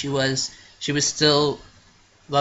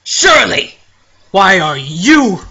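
high loud shout of a name; calling out; 4 semitones higher, 11 dB louder, slower than usual. Acted. Friend spotting Shirley, loud high call. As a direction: yell her name across the room.

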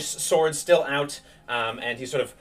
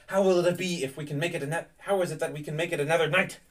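lightly acted stern protector, slightly raised pitch; Ismark, insistent; 5 semitones higher than usual. Ismark warning Irina they must make haste, lightly urgent. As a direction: press the point with growing urgency.

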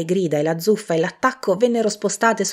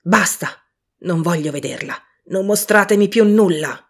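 louder shouting, rising to a cry at the end; desperate shout; 5 dB louder than usual. A narrator's reading. Scrooge begging the ghost in a loud shout. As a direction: beg at full voice to be spared. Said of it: "gridò Scrooge".

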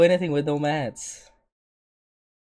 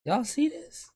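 mock outrage; 13 semitones higher, 5 dB quieter, slower than usual. Real, not acted. Teasing girlfriend to chat.

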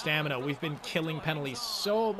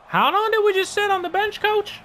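much higher and louder, an outraged shout; yelling at the coach; 6 dB louder than usual. Real, not acted. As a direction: bellow the complaint at the bench. Yelling at coach over ice time.

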